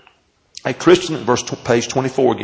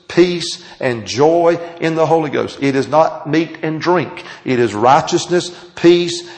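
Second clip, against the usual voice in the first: lightly preached, stretching key words; preaching cadence. Acted. Pastor preaching on the kingdom, measured cadence. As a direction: lay out righteousness, peace and joy to the congregation.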